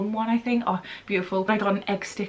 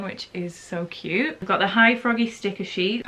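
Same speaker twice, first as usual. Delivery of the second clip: usual speaking voice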